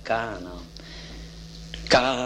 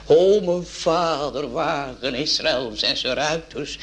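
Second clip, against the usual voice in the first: crying out; 3 semitones higher than usual. Retold or imitated. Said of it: "toen heb ik uitgeroepen".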